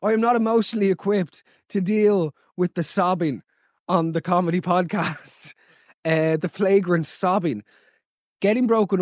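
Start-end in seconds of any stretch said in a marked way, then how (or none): 0.0-5.5 high, hammed-up panic; a host playing at being flustered; mock alarm at tears on a comedy podcast. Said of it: "And I was like".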